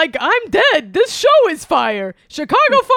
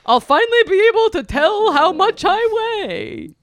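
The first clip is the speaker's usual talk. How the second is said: boisterous birthday clown; 3 semitones lower, faster than usual. Acted. Bunny voice continues.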